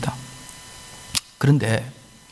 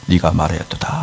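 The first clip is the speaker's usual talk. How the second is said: much lower, grave reply; Jesus answering; 10 semitones lower than usual. Acted. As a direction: answer low and solemn. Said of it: "대답하시되". (낮고 엄숙한 예수님의 대답)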